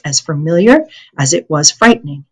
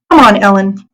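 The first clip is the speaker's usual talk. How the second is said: pleading; 3 semitones higher than usual. Acted. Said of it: "Anne Marie pleaded".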